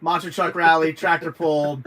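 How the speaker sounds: booming hyped promo voice; monster truck ad. Pretend. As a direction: announce it like a stadium event.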